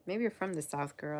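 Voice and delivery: put-on southern accent. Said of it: "keep my southern accent".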